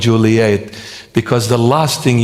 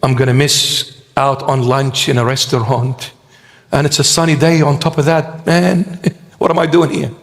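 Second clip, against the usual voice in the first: mock complaint. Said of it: "Oh, you say".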